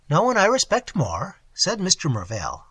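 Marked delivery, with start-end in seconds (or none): 0.1-1.4 "No one I respect more" pitched higher, firmly emphasised. A narrator's reading. Husband assuring his wife about her uncle, "No one I respect more" said emphatically. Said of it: "with emphasis".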